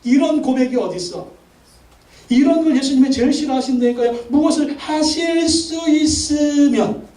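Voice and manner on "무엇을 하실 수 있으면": high, slow, scornful stretch of the words; doubtful drawn-out question. Shown as a demonstration. Pastor mocks the doubting father's words, slow and high. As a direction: drag it out, doubting. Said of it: "뭐예요?".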